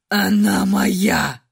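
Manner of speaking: low, slow growl, same as before, stubborn; repeating like a broken record. A narrator's reading. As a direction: grind out the same claim mechanically. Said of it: "как заезженная пластинка повторял Ашер". (как заезженная пластинка)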